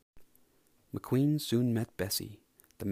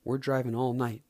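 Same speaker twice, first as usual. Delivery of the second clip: insistent; 5 dB louder than usual. Acted. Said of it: "McQueen insisted".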